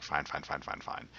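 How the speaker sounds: soft, trailing string of agreement; murmured, retold acquiescence; retold giving-in. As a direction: mildly imitate giving in, voice dropping away. Brushing off doctor's advice in retelling.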